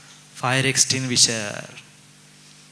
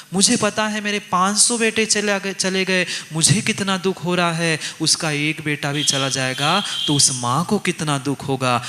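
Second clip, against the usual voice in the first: Draupadi crying out; 2 semitones higher than usual. Acted. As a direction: plead like a grieving mother. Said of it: "Draupadi चिल्ला पड़ी".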